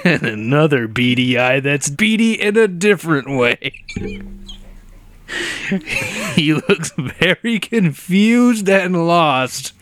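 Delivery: slow, drawn-out spooky narrator; hammed-up horror description breaking into laughter; mock-scary description. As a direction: stretch the words out with mock dread. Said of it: "Describe him in a scary way".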